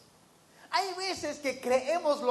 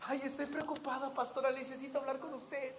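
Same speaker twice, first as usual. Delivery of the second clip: mock worried whisper; 8 dB quieter than usual. Mocking worried congregant.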